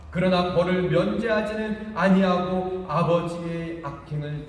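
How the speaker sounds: preacher reading Exodus aloud; solemn scripture reading. Acted. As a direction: declare the Lord's name with weight.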